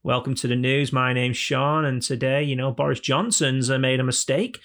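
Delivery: put-on newsreader with a northern English accent. Presenter opening the BBC news, northern English accent. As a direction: read the bulletin in broad northern English. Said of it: "northern accents were never a thing on the B B C".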